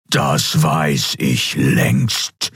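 slow, thundering distorted voice; seething shrieking spirit. A narrator's reading. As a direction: thunder it out, very slowly. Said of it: "donnerte der Kaiser". (donnernd, verzerrt, sehr langsam)

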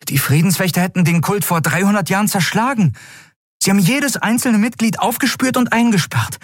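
hoch, schnell, fassungslos erzählend; Miko, aufgeregter Junge. A narrator's reading. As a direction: ein Junge sprudelt Schulwissen heraus. (Miko erzählt aufgeregt und viel höher)

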